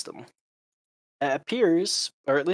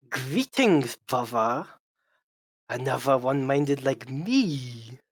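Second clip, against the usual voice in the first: speaking with a lisp; much slower than usual. Acted. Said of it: "this is my attempt to do lisp".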